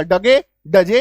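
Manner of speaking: डगे, डजे read letter by letter, as two syllables; naive misreading. Shown as a demonstration. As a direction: sound out the mistaken डगे, डजे. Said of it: "अगर अपना साधारण दिमाग लगाएंगे". (अक्षर जोड़कर डगे, डजे का गलत उच्चारण)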